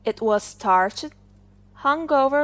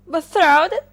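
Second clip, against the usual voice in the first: high, loud shocked cry; shocked exclamation; 7 semitones higher, 6 dB louder than usual. Acted. Collar shocked by the comb's engagement, high loud cry. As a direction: recoil at the news. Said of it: "exclaimed the collar".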